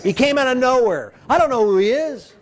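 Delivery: lightly voiced Abraham grumbling about the tenth. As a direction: ham up a grudging tither, then laugh it off.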